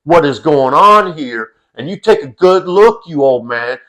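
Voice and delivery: slow, stern mock threat voiced for a little boy; imitating a toddler's slow, fierce warning to an old man; ferocious toddler. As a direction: lay down the law slowly, imitating a furious kid. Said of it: "looking at this old man with such a ferocity".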